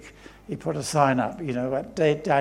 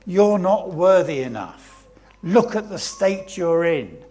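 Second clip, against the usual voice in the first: loud, dismissive telling-off; scolding crowd; 5 dB louder than usual. Acted. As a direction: send the beggar packing. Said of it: "he said".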